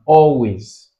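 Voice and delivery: slow "always" with a long AL; teacher's drawn-out "always", AL stressed; stress on first syllable. Shown as a demonstration. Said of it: "you have it on the first".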